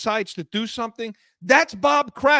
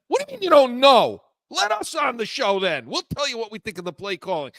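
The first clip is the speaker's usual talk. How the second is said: mock indignant retort. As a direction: fire it back at him in disbelief. Retorting to the coach's non-answer.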